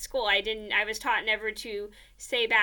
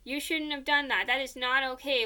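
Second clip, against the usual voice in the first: imitating a nagging mother, slightly raised voice; lightly acted parental telling-off; mild retold reproach; mock mom scolding; 3 semitones higher than usual.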